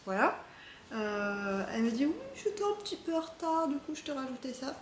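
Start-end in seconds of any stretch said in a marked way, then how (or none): 2.1-4.8 1 quoting the seller. Retold or imitated. Reading the seller's note aloud.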